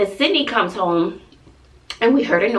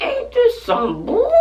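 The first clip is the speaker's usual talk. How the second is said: high, slow, fed-up drawl; high slow sarcastic complaint; exasperated; slower than usual. Retold or imitated. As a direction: stretch it out like you're done with it. Texting friends, exasperated.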